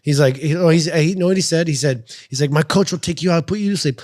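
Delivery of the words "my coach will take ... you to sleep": mock threat. Imitating rival's threat in retold argument.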